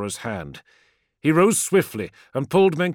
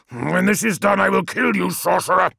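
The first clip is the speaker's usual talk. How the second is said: menacing promise; 6 semitones higher, 5 dB louder than usual. Acted. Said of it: "promised Biaki".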